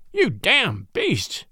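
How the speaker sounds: slow, drawn-out furious outburst; exploding in anger. A narrator's reading. Newcomer finally exploding at the crowd, slow and furious. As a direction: let it burst out, every word dragged. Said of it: "he finally exploded".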